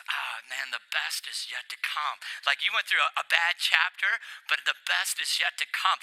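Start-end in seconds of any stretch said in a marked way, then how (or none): 0.1-2.2 hushed voice of God. Retold or imitated. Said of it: "pulls out and goes".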